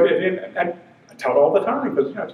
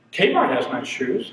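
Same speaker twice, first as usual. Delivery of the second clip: lower, slow, a hint of an old man; 5 semitones lower, slower than usual. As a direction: say it slowly like a contented old man. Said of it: "hearing yourself say things like".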